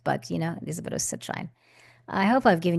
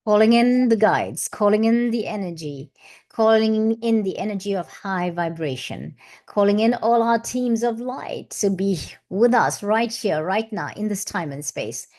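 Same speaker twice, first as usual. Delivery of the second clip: invocation; 2 semitones higher, 3 dB louder than usual. Acted. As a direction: summon the guides like a ritual prayer. Ritual invocation after singing bowl.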